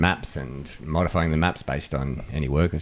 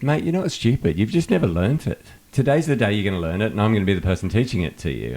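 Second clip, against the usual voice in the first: upbeat, encouraging, pitched higher; reassuring; 4 semitones higher than usual. Retold or imitated. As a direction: lift the caller up, cheerfully. Reassuring the caller.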